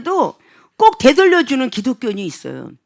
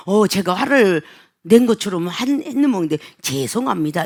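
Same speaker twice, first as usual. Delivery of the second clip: lower, softened apology; subdued apology; 5 semitones lower than usual. Acted. Clerk apologizing for seeming angry, subdued and low. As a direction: back down meekly, dropping pitch and volume. Staff apologizes after being challenged.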